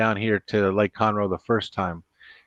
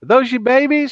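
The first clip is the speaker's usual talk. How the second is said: wide-mouthed frog; 12 semitones higher, 4 dB louder than usual. Acted. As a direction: stretch every word like a big-mouthed frog. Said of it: "And he goes".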